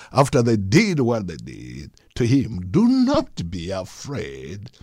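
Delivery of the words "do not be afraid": soft, slow reassurance; kindly. Retold or imitated. Joseph comforting his frightened brothers, soft and slow. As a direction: ease their fear gently and quietly. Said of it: "comforted them and spoke kindly".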